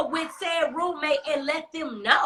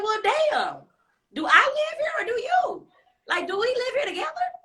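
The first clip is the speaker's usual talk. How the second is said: exasperated shout; 8 semitones higher than usual. Retold or imitated. Mock yelling at roommate about who lives here. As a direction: yell it back in disbelief. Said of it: "I said".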